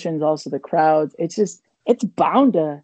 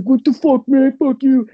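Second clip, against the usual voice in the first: heckler yelling; 6 semitones higher, 6 dB louder than usual. Retold or imitated. Heckler swearing at comic.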